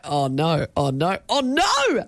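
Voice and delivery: "oh no" repeated, climbing and stretching out; mock dawning dismay. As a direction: play mounting dread for laughs. Acting out dawning office dismay.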